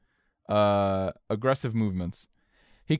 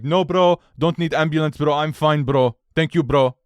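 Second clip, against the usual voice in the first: a hint of a louder, casual bro voice; imitating the crashed driver; 2 semitones higher, 4 dB louder than usual. Crash driver refusing ambulance, lightly voiced bro. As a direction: brush it off, bro style. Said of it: "And he's like".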